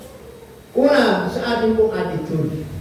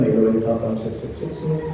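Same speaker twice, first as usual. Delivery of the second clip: put-on much lower, babyish sup-sup-sup-sup slurping sounds; mock lollipop sucking; 10 semitones lower than usual. Preacher mocks a grown boy to the church, low slurping mimicry. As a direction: mimic a fifteen-year-old still slurping on candy.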